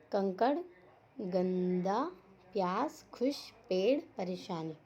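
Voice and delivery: "कंकड़", "गंदा", "प्यास" each said separately and clearly; careful pronunciation. Shown as a demonstration. Teacher modelling "कंकड़" to "परेशानी" for pupils, careful separated pronunciation. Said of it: "इसका शुद्ध उच्चारण करना है".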